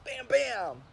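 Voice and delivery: playful "bam, bam" sound effects; mock punch noises. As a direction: voice play-fight hits.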